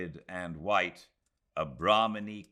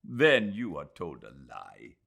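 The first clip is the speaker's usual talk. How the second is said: flashing retort; 3 semitones lower, 6 dB louder than usual. Acted. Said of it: "he flashed".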